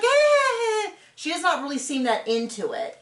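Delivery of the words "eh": high, unenthused little eh; unimpressed grunt. Retold or imitated. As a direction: shrug it off, clearly not into it. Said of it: "And she's like".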